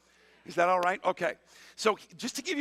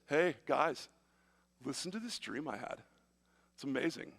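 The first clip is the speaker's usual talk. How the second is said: lightly voiced little brother, softer; 3 semitones lower, 5 dB quieter than usual. Joseph telling his brothers his dream, lightly voiced little brother. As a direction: play a hint of an eager little brother. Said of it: "a little brother talking like this".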